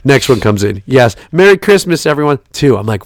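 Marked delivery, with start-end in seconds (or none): 0.9-2.4 mock cheery. Mocking parents' holiday texts.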